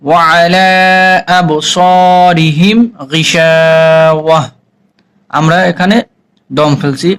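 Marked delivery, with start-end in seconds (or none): 0.0-0.7 drawn-out melodic tilawat, each vowel held long; slow Quran recitation. Shown as a demonstration. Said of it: "teacher models recitation". 1.4-4.4 drawn-out melodic tilawat, each vowel held long; slow Quran recitation. Shown as a demonstration. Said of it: "teacher models recitation".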